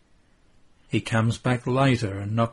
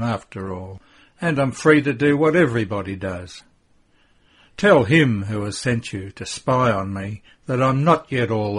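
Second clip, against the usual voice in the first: louder, defensive retort; angry rebuff; 5 dB louder than usual. Acted. Judas rebuffing Mary, angry and defensive. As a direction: push her away with words.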